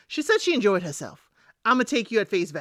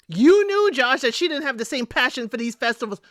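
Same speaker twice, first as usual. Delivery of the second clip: emphatic scolding; 3 semitones higher than usual. Real, not acted. Scolding Josh directly.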